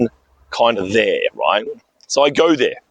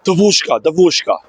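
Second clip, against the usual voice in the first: high-pitched call across the entrance; retold calling out; 6 semitones higher than usual. Old attendant hailing a young girl, mock call. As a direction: call out to get the girl's attention. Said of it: "So she yells out".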